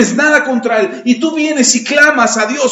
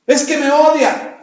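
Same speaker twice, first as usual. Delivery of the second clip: whiny excuse-maker; 4 semitones higher, slower than usual. Retold or imitated. Mocking excuses of the unforgiving.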